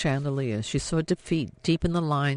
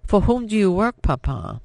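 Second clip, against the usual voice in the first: sharp demand; 6 semitones higher, 5 dB louder than usual. Acted.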